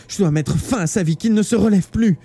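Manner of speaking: desperate resolve. Acted. Kayoko running to finish him.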